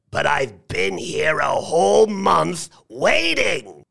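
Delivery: put-on high, complaining old lady; high-pitched old lady's complaint. A narrator's reading. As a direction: protest like an aggrieved old lady. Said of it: "said one old lady".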